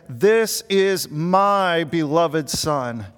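very slow, measured proclamation as God; God's voice. Retold or imitated. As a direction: lightly voice God speaking from the cloud, drawing out each word. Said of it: "and the voice said".

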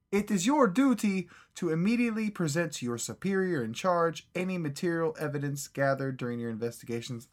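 mock Russian accent. Reading Soviet agent orders aloud to friends, hammed-up Russian accent. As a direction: read it like a stern Soviet briefing in a bad Russian accent. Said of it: "I am terrible at accents".

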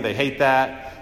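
drawn out, dismissive they hate that; lightly mocking, slowed right down; slow dismissive jab. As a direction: land it slowly with a weary shrug. Mocking the generation's complaint.

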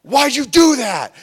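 put-on high, loud wounded kid whine; whiny little brother. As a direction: squeal it like a smacked little brother. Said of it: "and he'd be like".

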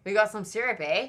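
corrected mock-Canadian accent, ending on "eh"; comic Canadian lilt. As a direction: put on a playful Canadian accent. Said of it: "even close to a Canadian accent".

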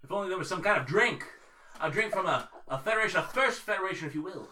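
halting captain's log delivery with long pauses; starship captain. Acted. Starship captain confiding a constipation problem to his log, halting mock-serious delivery.

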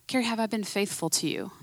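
soft, hushed fatherly question with a rising end; gentle voice of God. Retold or imitated. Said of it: "the Lord just reminds me".

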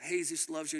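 "Jesus" said Spanish-style as hay-SOOS; plainly spoken "Jesus" as Spanish hay-SOOS; attempted Spanish. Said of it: "I wish I could speak Spanish".

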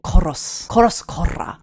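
korra with the R rolled hard and rough; rough thug threat. Shown as a demonstration. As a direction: growl koros koros korra like a street tough. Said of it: "insulting with threats to kill".

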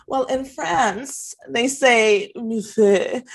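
slow, high, snooty correction of millefeuille; mock a know-it-all customer, drawn out; imitating a condescending diner lecturing a bartender. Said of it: "it's like".

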